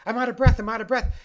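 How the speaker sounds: high, loud mock panic; acted panicking mind. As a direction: play an alarmed mind gasping for air. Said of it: "Your mind automatically goes".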